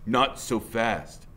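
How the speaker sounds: very slow threatening line; menacing biker. Acted. Biker stopping fleeing boy, slow threat. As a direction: block them with each word. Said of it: "he says".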